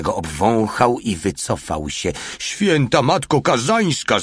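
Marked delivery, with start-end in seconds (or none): 2.4-4.2 high, drawn-out terrified howl; przerażony skowyt. A narrator's reading. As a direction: wail it slowly in fright. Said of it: "zawył przerażony mały". (przerażone zawodzenie)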